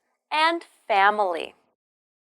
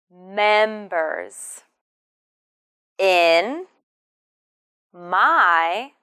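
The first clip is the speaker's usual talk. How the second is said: each word apart, slow and clear; slow model sentence, word by word; 2 semitones lower, much slower than usual. Shown as a demonstration. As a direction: space out every word. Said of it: "slow word by word model".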